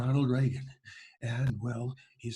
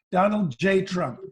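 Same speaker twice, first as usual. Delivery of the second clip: slow, higher, louder Trump boast; Trump impression; 4 semitones higher, 4 dB louder, slower than usual. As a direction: boom his own name slowly. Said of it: "we have Donald Trump".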